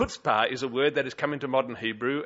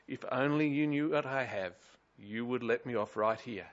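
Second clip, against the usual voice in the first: quiet imploring plea; 6 dB quieter than usual. Retold or imitated. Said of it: "puts her hand across her chest and says".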